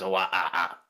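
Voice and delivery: choppy little robot whine; stuttering beep of a small robot; robot noises. Acted. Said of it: "and the robot goes".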